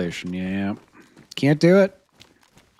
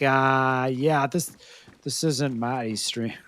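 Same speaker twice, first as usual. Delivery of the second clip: weak attempt at an Australian accent; poor Australian accent; 4 dB quieter, slower than usual. Streamer imitates supporter Jimmy, poor Australian accent. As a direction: try Australian, not very well. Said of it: "I can't do Australian very well".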